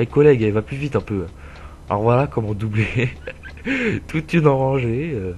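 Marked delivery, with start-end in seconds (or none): 0.0-1.3 louder hail to a fellow driver; calling out. Real, not acted. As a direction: call out to hurry him up.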